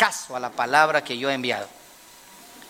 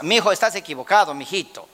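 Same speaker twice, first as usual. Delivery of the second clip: pastor's wife correcting; faster than usual. Retold or imitated. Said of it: "la pastora dice otra cosa".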